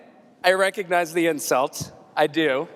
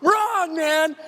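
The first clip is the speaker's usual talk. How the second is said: laughing taunt; 7 semitones higher, slower than usual. Acted. Mock buzzer mocking the guest.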